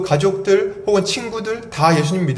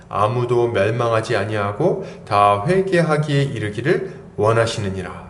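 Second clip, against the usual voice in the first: lower, slow, measured Bible reading; scripture reading; 5 semitones lower than usual. Real, not acted. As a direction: read the verse out solemnly and slowly. Reads scripture aloud. (낮고 느린 성경 봉독)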